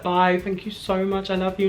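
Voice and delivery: high-pitched, hurried-off farewell; gushing goodbye. Retold or imitated. Fan pulled away from her idol, gushing goodbye. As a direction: re-enact calling thanks as you're dragged away.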